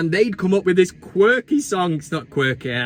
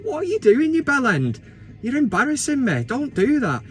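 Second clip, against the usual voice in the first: telling off son; 6 semitones higher than usual. Retold or imitated. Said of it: "I'm like".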